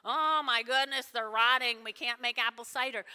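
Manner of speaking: loud, lightly hammed-up panic; mock freak-out. Preacher mimicking someone freaking out over rotting apples, loud mock panic. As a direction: fret loudly over a trivial loss. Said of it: "he's not freaking out going".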